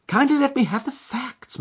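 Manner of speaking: high, curt demand; impatient. Acted. Holmes hurrying the rambling client, impatient. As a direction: cut him short. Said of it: "said Holmes with some impatience".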